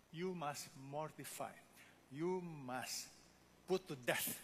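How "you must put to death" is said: "put to death" set apart by pauses and weighted; emphatic stress on "put to death". Real, not acted. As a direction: pause before "put to death", then press it home. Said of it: "That's the emphasis".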